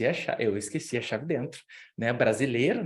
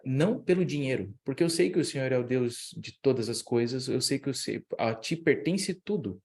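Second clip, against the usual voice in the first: earnest, intimate prayer voice. Retold or imitated. Praying that God will open the locked door, earnest and hushed.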